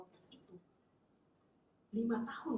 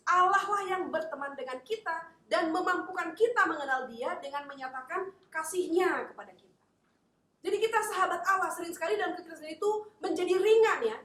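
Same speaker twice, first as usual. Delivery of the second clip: high, loud sermon drive; preaching at full force; 7 semitones higher, 11 dB louder than usual. Acted. Preacher exhorts the congregation, full-force preaching. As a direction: proclaim it to the congregation.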